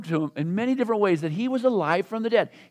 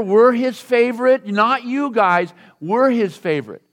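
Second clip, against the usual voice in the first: mock boast; 6 dB louder than usual. James and John boasting.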